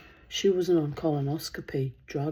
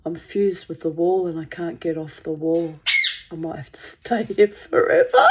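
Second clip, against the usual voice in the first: laughing; 8 dB louder than usual. Retold or imitated. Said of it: "I went".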